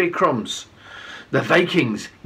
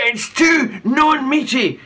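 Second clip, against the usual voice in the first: yelled; 8 semitones higher, slower than usual. A narrator's reading. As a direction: yell it triumphantly. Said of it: "yelled the man".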